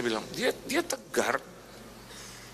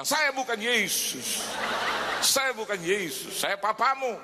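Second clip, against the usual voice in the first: mock protest; 4 semitones higher, slower than usual. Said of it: "Saya mau bilang".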